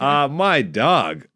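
slow, stretched-out "my dog"; slow drawn-out mock slang. Shown as a demonstration. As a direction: drag out "my dog" like it's not yours. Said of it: "that's not me".

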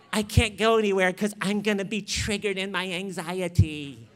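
put-on voice of mock anxiety; mocking triggered whiner. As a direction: parody someone making a show of being fragile. Mocks easily triggered people.

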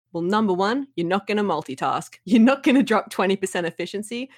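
half-hearted impression of a TV self-help host laying down rules; imitating Doctor Phil. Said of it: "going on in his southern drawl".

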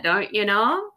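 lightly mocked Minnesota lilt, rising; Minnesota accent. Admitting Minnesotans say it, in a light Minnesota accent. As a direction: own the Minnesota phrase with a grin. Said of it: "We do totally say that".

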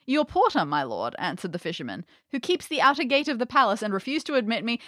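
theatrical storybook reading with voiced dialogue; story narration. A narrator's reading. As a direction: act out the old tale's dialogue lightly.

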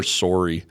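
"sorry" with a Canadian long O. Shown as a demonstration. Host teasing Canadians, "sorry" with a rounded Canadian O. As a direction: say "sorry" as SORE-ee. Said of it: "go all Canadian".

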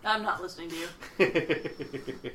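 bad acting. Mocking Luke's flat reaction.

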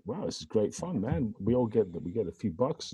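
put-on Australian accent. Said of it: "I don't know why I'm being Australian".

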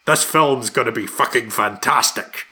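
fast, lightly voiced Scottish tough guy laying down the law; a quick, hammed-up Scottish growl at studio bosses; Sean Connery impression. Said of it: "Sean Connery stepped in and, you know, unloaded on them".

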